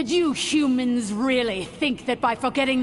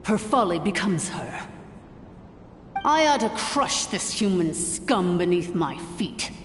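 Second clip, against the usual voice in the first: low, sinister private aside; plotting under the breath; 5 semitones lower than usual. Acted. Villain's private menacing aside.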